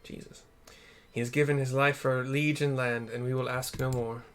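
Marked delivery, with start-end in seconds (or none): 1.1-4.2 a hint of a solemn old warrior; lightly voiced grave lord. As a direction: speak it gravely, like a weary lord. Streamer voices game character.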